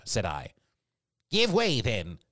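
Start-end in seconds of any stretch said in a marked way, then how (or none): 1.3-2.2 high, loud order to the oarsmen; captain's cry. A narrator's reading. Captain ordering the rowers on, crying out. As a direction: cry out, then drop back. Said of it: "cried the captain".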